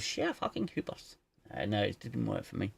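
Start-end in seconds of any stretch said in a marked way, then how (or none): 0.0-1.2 imitating her in a voiceless hiss; retold hushed outburst. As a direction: whisper the mock curse. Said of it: "and then she goes".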